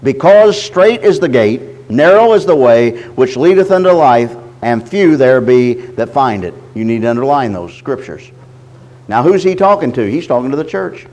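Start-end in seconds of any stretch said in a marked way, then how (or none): 0.0-6.5 slow, measured reading of scripture. Acted. Preacher reading scripture to his church, slow and measured. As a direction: read the verse out to the church, deliberately.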